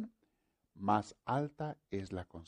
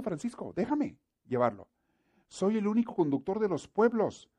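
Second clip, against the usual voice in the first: higher, louder, solemn commanding God speaking to Francisco; 5 semitones higher, 6 dB louder than usual. Acted. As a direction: proclaim as a mighty, insistent God.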